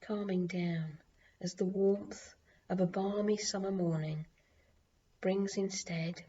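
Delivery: calm, unhurried meditation reading; guided meditation. Acted. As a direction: lead the listener gently into a calm journey.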